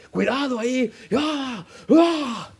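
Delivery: high-pitched imitated yell; mock angry outburst. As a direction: jump up angrily at the blackout. Pastor enojado cuando se fue la luz. (imitando un grito de enojo, mucho más agudo)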